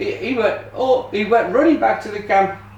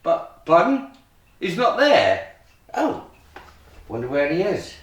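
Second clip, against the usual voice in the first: put-on kids party magician. Kids magic show patter.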